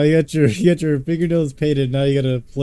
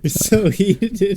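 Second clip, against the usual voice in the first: teasing drawl; 7 semitones higher, much slower than usual. Real, not acted. Friend teases drawn-out.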